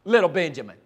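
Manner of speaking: put-on a father berating his boys for talking too much; angry frustration. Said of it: "filled with anger and frustration at the boys".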